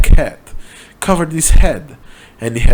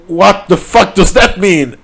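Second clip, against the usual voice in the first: baffled; 7 semitones higher, 3 dB louder than usual. A narrator's reading. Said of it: "more baffled than scared".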